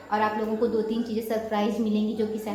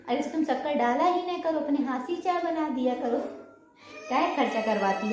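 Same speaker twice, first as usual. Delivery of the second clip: imitating her mother. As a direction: tease like mom mocking her daughter. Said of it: "कहती थी".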